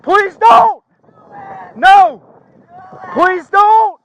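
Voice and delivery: shouting plea. Real, not acted. Officer pleading at knifepoint.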